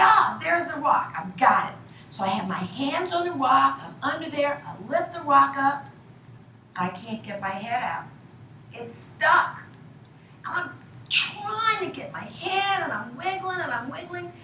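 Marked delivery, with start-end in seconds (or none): 0.0-1.8 louder, higher start dropping at the end; acted delight. Acts out finding the rock. 10.5-14.3 high-pitched, strained retelling of wriggling free; acted struggle. Retells struggling, head stuck.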